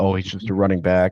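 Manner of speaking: usual speaking voice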